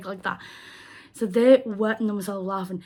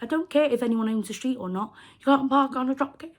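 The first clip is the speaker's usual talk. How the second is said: higher, louder, mock-insistent; firm retort; 4 semitones higher, 3 dB louder, faster than usual. Speaker telling the woman off over drop curb, firm and louder. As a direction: lay down the rule she is breaking.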